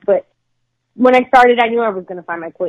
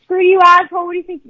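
rude snap; 9 semitones higher, faster than usual. Retold or imitated. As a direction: snap like an annoyed local. Acted rude Philly retort.

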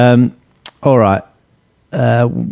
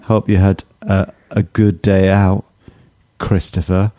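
sarcastic. Real, not acted. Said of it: "that sounded, like, really sarcastic".

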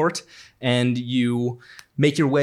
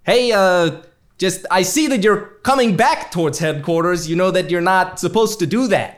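higher, lightly put-on boss voice; a stern boss calling him; boss on the phone; 4 semitones higher than usual. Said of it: "GM voices boss on phone".

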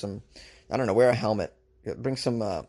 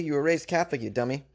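mock self-scolding; 3 semitones higher than usual. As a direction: tell yourself off like a fool. Scolding himself by his own name.

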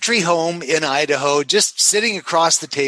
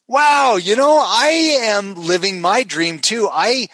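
excited stranger; 4 semitones higher than usual. Retold or imitated. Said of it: "and she goes".

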